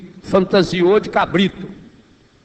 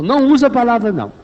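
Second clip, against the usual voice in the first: emphatic preaching; 6 semitones higher, 5 dB louder, much faster than usual. Real, not acted. Preacher stressing key rule.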